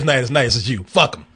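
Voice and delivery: normal talking voice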